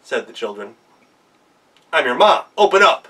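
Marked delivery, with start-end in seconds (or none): 1.9-3.1 loud, gruff wolf pretending to be mom; a badly faked mother voice; wolf poorly posing as mother goat; rough fake mother. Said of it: "Our ma doesn't talk like that".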